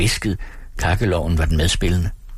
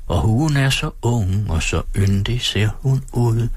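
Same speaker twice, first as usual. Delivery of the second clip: sangtekst læst op. A narrator's reading. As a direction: recite the anthem verse, drawing out the lines. Reads out the school song. (langsom, højtidelig oplæsning af sangvers)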